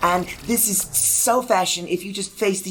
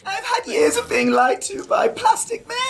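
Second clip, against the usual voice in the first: shrill accusation; 12 semitones higher than usual. Acted. Barbie accusing in character.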